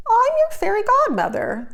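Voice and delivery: kindly. A narrator's reading. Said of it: "the lady said kindly".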